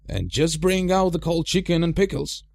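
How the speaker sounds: Gandalf calling. A narrator's reading. Gandalf calling after hobbit.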